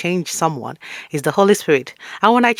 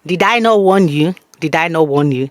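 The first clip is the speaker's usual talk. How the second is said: told-you-so reminder; 4 dB louder than usual. Retold or imitated. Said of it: "you will hear reminder".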